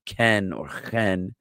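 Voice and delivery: ken or chen with an eh vowel, modern Hebrew style; ken, chen in Sephardic Hebrew. Shown as a demonstration. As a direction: give ken and chen a crisp eh sound. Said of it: "like an eh sound".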